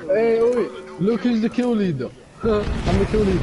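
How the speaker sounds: high, bright bragging; gleeful boast. Real, not acted. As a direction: crow about being top. Boasting about kill leader.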